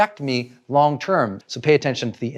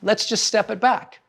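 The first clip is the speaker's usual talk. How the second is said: gently reassuring; 3 semitones higher than usual. Retold or imitated. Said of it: "And I say".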